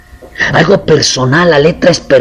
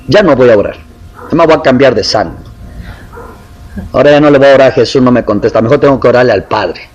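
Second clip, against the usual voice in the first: grumbling sulk; 2 semitones lower, faster than usual. Retold or imitated. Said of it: "Además se enoja uno".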